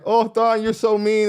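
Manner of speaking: high whiny mock of the critics; mocking whiny complaint. Audience whining at Thon, high mock complaint. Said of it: "Everybody was like".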